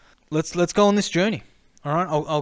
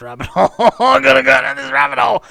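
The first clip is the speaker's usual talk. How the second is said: laughing, then a much higher, louder cry; laughing excitement; 8 semitones higher, 10 dB louder than usual. Retold or imitated. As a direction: blurt it out laughing, then shout it giddily. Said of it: "And I'm like".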